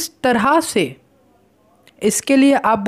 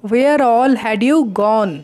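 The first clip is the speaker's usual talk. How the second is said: very slow, each word set apart; slow model sentence; much slower than usual. Shown as a demonstration. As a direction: spell it out slowly for learners. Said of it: "आप इस तरीके से पूछते हैं". (धीमा, साफ़ उच्चारण)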